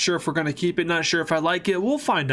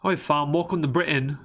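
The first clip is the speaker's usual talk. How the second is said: rough attempt at a British accent; shaky British accent attempt. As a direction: have a go at casual British slang speech. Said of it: "That's not much better".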